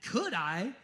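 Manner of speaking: taken aback. Retold or imitated. Jesus answering the begging people, mock surprised. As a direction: act puzzled at being asked. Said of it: "Jesus goes".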